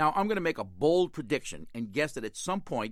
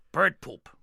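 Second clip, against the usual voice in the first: louder deadpan pirate answer; pirate punchline; 2 semitones higher, 6 dB louder than usual. Retold or imitated. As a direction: hit the punchline flatly. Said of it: "pirate's punchline".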